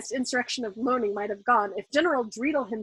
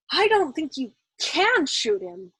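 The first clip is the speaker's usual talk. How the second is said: hesitant; 5 semitones higher, 4 dB louder, slower than usual. A narrator's reading. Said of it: "he suggested hesitantly".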